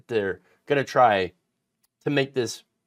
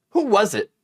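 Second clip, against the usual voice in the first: raised pitch, feigned curiosity; mock-innocent question; 7 semitones higher, 4 dB louder than usual. Quoting the accused's message, mock-innocent. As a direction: ask it as if you didn't know. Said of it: "Like he doesn't know".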